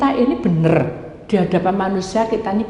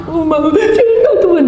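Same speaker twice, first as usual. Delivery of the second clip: high, loud mock crying; hammed-up tearful wail; imitated weeping; 8 semitones higher, 5 dB louder than usual. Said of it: "dia nangis-nangis, nyanyi, nangis". (menirukan tangis mewek)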